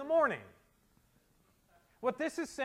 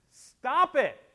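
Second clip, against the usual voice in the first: loud, high exclamation cutting off excuses; sudden raised-voice reprimand; sharp command; 6 semitones higher, 10 dB louder than usual. Acted. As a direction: shout it as an abrupt order. Preacher cuts off list of excuses.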